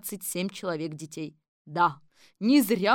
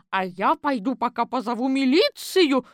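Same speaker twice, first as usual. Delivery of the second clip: higher, louder order; commanding; 5 semitones higher, 7 dB louder than usual. Acted. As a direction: give the watchman orders. Четверухина уходит за милицией. (приказным тоном, громко и выше)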